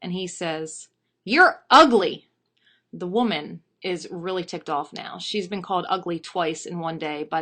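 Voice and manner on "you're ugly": loud, slow, raised parrot voice; high-pitched, drawn-out bird heckle; insulting parrot. Acted. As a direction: draw out the insult loudly.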